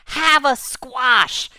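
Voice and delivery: loud, high, stretched-out battle cry; attacking shout. Retold or imitated. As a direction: hurl it out, drawing out the words. Monkey attacks with squash.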